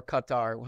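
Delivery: Qatar as CUT-tar, short first vowel and full "tar"; Qatar with "cut" first, then an open "tar"; another pronunciation variant. Shown as a demonstration. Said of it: "however you wanna say it".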